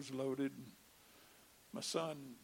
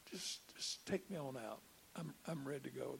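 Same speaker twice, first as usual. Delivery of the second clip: softer, inward prayer, barely voiced; a quiet prayer held inside; unspoken prayer; 2 semitones lower, 6 dB quieter than usual. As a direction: think the words to God rather than say them. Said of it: "I could think, but I couldn't say it".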